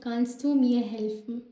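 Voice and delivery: very slow, rising at the end; drawn-out classroom German; slow teaching demo. Shown as a demonstration. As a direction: model the question slowly. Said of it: "teacher demonstrating German phrase".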